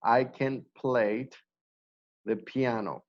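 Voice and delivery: slow, careful teacher model of "I can play the piano"; slow model sentence. Shown as a demonstration. Teacher modelling a sentence for the class, slow and careful. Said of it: "plus the verb".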